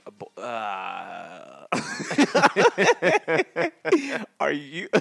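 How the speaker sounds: real laughing fit, high and loud. Real, not acted. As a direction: crack up mid-question, can't go on. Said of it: "I'm struggling".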